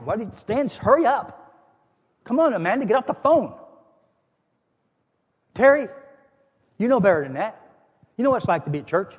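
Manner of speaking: high, loud, impatient hollering at the cars; ticked-off yelling. Retold or imitated. Preacher replaying how he yelled at his church friends blocking the parking lot, exasperated shouting. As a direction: blow up at the people blocking you in. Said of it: "I'm just really getting ticked off".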